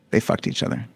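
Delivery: hushed whispered punchline. Real, not acted. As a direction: drop to a whisper.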